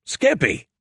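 high, exclaimed name with a touch of amusement; laughed protest. A narrator's reading. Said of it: "I laughed".

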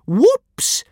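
high, loud gleeful crow; joyful crowing. A narrator's reading. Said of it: "crowed the little girl joyfully".

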